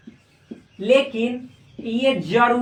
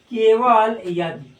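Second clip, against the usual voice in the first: slow repeat; much slower than usual. Shown as a demonstration. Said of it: "ऐसे पढ़ा जाता है".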